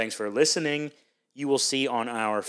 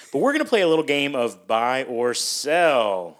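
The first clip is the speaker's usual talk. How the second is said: excited; 4 dB louder than usual. Real, not acted. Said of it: "Really excited about this".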